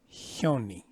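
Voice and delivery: Hyoni with a breathy h before the y. Shown as a demonstration. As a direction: let air hiss before the y in Hyoni. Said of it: "Not yoni, but hyoni".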